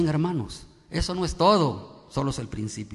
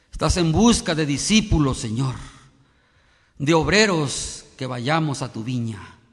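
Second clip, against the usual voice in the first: prayer. Acted. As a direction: address God reverently on the congregation's behalf.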